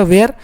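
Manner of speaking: वेयर with a long "ay" vowel before the r; mispronounced "were". Shown as a demonstration. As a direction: say वेयर in two syllables, "way-er". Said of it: "तो वेयर भी आपका गलत है".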